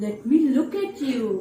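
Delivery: wolf faking grandma. Acted. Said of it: "pretending to be the grandmother".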